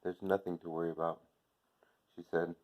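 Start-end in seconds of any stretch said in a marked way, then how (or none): 0.0-1.2 soft, hushed reassurance to her son; barely above a murmur, soothing; quiet. A narrator's reading. Mother soothing her son at night, softly. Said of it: "Quietly, I could barely hear her".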